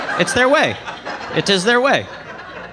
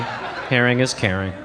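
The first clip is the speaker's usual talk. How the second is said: laughing; 8 semitones lower, 5 dB quieter, slower than usual. Real, not acted. Repeated softer, laughing.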